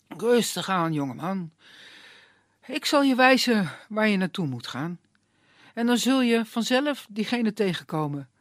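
put-on unhurried, kindly old man; calm old woodsman. Old woodsman calming the young man, lightly voiced. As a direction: soothe the hothead, take your time.

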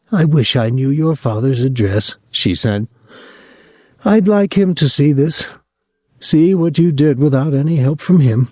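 a resentful mother proud of her son; old mother. Acted. Mother voice in the story.

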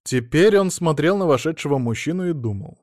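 plain reading voice

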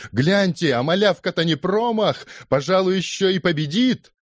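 very high, astonished cheering; men shouting. A narrator's reading. Men amazed at the underdog's attack, shouting high. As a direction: cry out high to the whole crowd. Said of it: "а мужчины закричали".

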